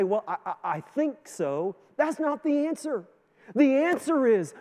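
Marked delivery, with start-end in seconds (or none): 0.0-1.8 mock hesitant. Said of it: "and you say".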